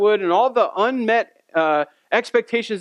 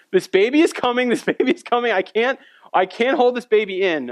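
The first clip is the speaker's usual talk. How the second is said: mild mock yell, pitch raised; retold screaming; 4 semitones higher than usual. Wife in labor on the way to hospital, mock screaming. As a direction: imitate a panicking wife without really screaming. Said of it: "she's screaming at the top of her lungs".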